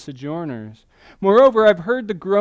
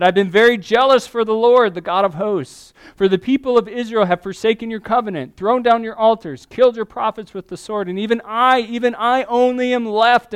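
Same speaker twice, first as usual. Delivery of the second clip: higher and louder pleading complaint; intense lament; 5 semitones higher, 6 dB louder than usual. Acted. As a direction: push the prophet's grievance harder. Elijah's complaint reread, more intense.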